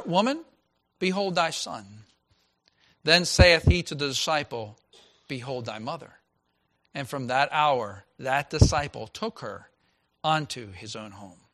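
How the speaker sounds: measured King James reading, slowing at the end; scripture reading. Acted. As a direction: read solemnly, easing down. Pastor reads scripture aloud.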